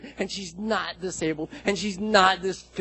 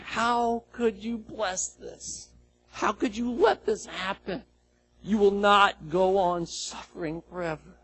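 angry lament; 4 semitones higher, slower than usual. Retold or imitated. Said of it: "I'm in tears, and I'm angry with God".

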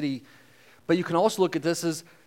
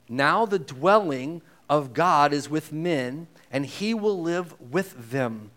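scripture reading; slower than usual. Acted. Reads scripture aloud.

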